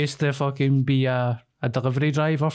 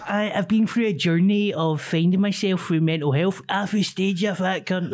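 mock earnest speaker; 5 semitones higher than usual. Mimics earnest speaker at charity gig.

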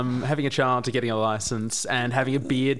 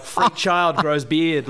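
headline read; much slower than usual. Retold or imitated.

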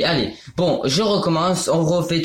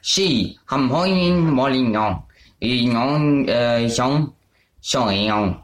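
fake Chinese; 4 semitones lower, much slower than usual. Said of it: "je vais parler en chinois".

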